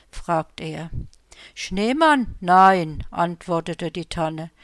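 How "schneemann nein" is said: surprised tree. Acted. The spruce answers Henry's question, surprised and loud. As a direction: pop up in surprise, then a firm no.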